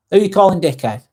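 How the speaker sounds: mock indignant Lancashire challenge; a hint of broad Lancashire, playfully offended; Lancashire accent. Streamer teasing a viewer in a light Lancashire accent. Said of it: "I'm using my, uh, Lancashire accent there".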